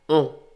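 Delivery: "O" drawn out slowly through the nose; nasal O. Shown as a demonstration. Teacher showing the class a slow nasal "O". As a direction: let "O" ring long in the nose. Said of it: "las voy a decir".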